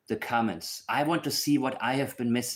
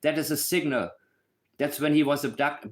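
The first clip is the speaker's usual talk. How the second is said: lightly mimicked know-it-all commenter, raised pitch; mocking commenters; 5 semitones higher than usual. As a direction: parody a silly online comment. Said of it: "I get the stupid comments".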